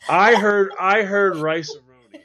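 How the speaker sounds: laughing, incredulous I heard; loud disbelief. Real, not acted. Host mocking cohost's risotto order, loud laughing disbelief.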